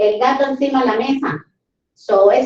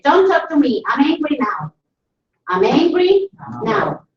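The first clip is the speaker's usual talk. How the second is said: mildly acted anger; 3 semitones higher than usual. Someone already angry says it directly, mock annoyance. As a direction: act out telling someone off, lightly. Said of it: "si ya está enojado".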